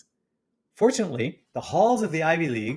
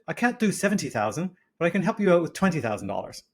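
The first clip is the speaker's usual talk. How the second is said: higher-pitched mock British accent; put-on posh British; upper-class British; 5 semitones higher than usual. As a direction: play the posh British investor. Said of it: "accent that I had been assured was very upper class Brit".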